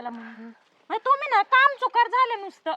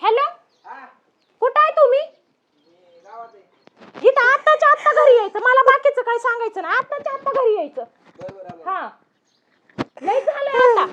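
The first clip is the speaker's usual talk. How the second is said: angry phone order. Acted. Wife ordering her husband home on the phone, angry. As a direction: order him home right now.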